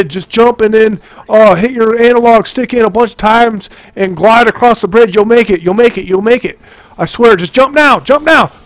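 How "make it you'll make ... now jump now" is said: much higher, pressing hard; urgent urging. Real, not acted. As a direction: push him to jump right now. Urging teammate to jump.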